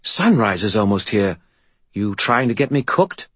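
grumpy ghost in a skull; talking skull spirit. Acted. Bob the spirit.

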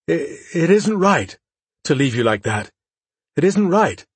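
holding back tears, voice pinched high; miserable, fighting not to cry. A narrator's reading. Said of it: "Grial said miserably".

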